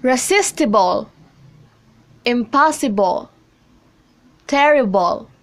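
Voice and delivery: reSIStible, imPOSsible, TERrible, stress just before the ending; stress before suffix. Shown as a demonstration. Teacher reads examples Resistible, impossible, terrible, each stressed before the suffix. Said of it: "on a syllable right before the suffix".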